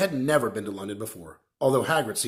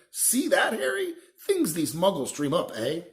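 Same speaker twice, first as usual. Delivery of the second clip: loud; 5 semitones higher than usual. Acted. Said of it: "saying loudly".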